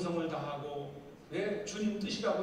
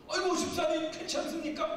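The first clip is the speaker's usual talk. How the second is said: mock tearful concern; 7 semitones higher than usual. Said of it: "눈물을 흘리듯이 기도해요".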